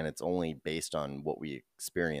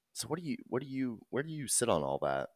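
numb mouth; 5 semitones higher, 3 dB quieter, faster than usual. Real, not acted. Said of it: "your tongue's, like, hanging out".

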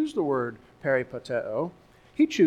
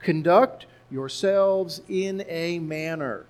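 slow emphatic reading; slower than usual. Shown as a demonstration. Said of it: "five words here in English".

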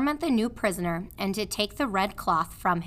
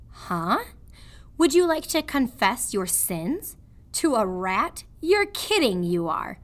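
gruff prisoner; 4 semitones higher than usual. Acted. Prisoner scoffs.

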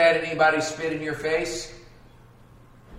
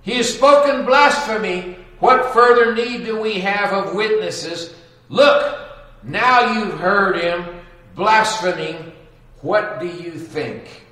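loud, high furious accusation; the high priest shouting in outrage; outraged high priest; 6 semitones higher, 7 dB louder than usual. Acted. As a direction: rage at the blasphemy. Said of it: "tore his clothes".

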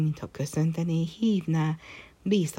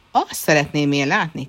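loud angry retort from the emperor; angry shout; 6 dB louder than usual. Acted. Emperor shouting at his defiant son, loud and angry. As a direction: bark it back at him, louder. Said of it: "kiáltotta a császár".

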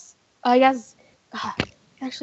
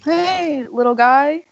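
higher, lilting call to a little dog; coaxing; 4 semitones higher, 5 dB louder, slower than usual. Acted. Player to the stray dog, coaxing. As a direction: coax a stray animal over.

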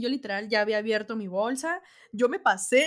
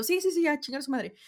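dismissive; 6 semitones higher, 4 dB louder than usual. Retold or imitated. Brushing off guards mid-run.

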